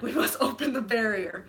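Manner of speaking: badly faked Wakandan accent, breaking into laughter; laughing, failed Wakandan accent; T'Challa. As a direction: attempt a regal African accent and laugh at it. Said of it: "I can't do a fucking accent".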